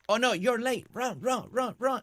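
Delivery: high, urgent cries to hurry; playful urging. Pretend. Player hurrying a late villager along, playful urging.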